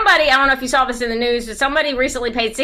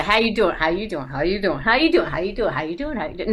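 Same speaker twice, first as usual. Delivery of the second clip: Jersey greeting; 2 semitones lower, 3 dB quieter than usual. Shown as a demonstration. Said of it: "you go".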